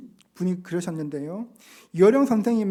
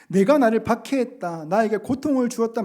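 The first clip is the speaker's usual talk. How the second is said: forceful declaration; 3 semitones higher, 6 dB louder than usual. Acted. Preacher stresses Jesus' words.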